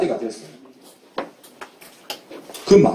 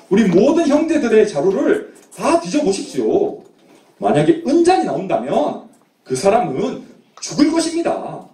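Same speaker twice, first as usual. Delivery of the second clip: acted, assured declaration of innocence; confident vow; 3 semitones higher than usual. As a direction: dare them to search, with storyteller's confidence. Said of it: "이렇게 장담하면서 말했어요". (당당하게 장담하는 말투)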